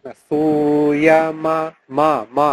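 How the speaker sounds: মা with a short open অ, drawn out slowly; correct Sanskrit vowel. Shown as a demonstration. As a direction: say মা, not মা as in Bengali. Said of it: "এটা মা না". (সংস্কৃত অ-ধ্বনিতে মা)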